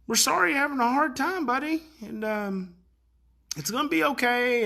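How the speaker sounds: kind reassurance. Retold or imitated. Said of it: "words of affirmation and kindness".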